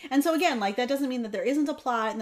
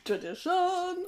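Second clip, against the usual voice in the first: put-on Yiddish accent; 7 semitones higher, slower than usual. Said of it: "like, a Yiddish accent".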